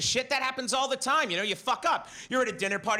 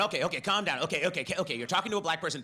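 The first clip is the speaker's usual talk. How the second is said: anxious inner voice; 5 semitones lower, faster than usual. Retold or imitated. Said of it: "little voice in your head going".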